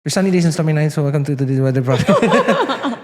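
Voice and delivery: imitating a fast weather host; half-hearted weather report voice; weather presenter impression. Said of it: "let me impersonate, let me impersonate".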